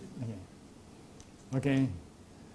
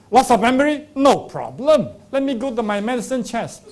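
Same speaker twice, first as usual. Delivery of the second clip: snake oil seller; 5 semitones higher, 4 dB louder than usual. Retold or imitated. Quack reassures patient.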